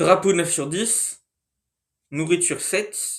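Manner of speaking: numbers spelled out very slowly and deliberately. Summing up a country's ratings on a channel, speaking very slowly. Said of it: "je vais très lentement".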